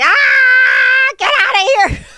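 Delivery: very high, drawn-out yell. Recounting running out and yelling right next to the hotel: retelling a yell. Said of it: "we're out there yelling".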